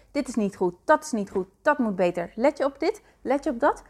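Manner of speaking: a hint of a belittling inner critic, fast and pushy; nagging inner critic. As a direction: needle yourself like a mean inner voice. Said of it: "die constant zegt".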